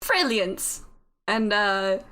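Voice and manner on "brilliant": businesslike put-on British; bad British accent. Voice in the head closes the deal with the player, put-on British accent. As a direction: wrap up the deal in hammy British. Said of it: "My horrible British accent".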